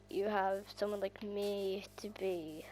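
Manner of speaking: sudden breathy whisper aside. Real, not acted. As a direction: drop to a secret whisper. Whispered aside mid sentence.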